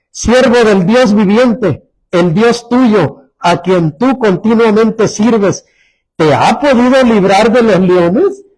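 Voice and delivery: slow, worried calling to Daniel; a king's slow, anxious plea; sad, worried call. Acted. King calling down into the lions' den, slow and worried. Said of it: "con voz triste".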